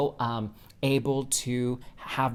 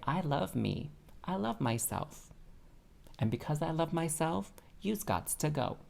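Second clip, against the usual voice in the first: sassy affirmation; 4 semitones higher, 6 dB quieter than usual. Pretend. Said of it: "just say".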